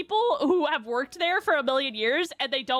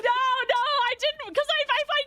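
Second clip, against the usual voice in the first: holding back tears; 9 semitones higher than usual. Real, not acted. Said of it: "I'm trying not to cry".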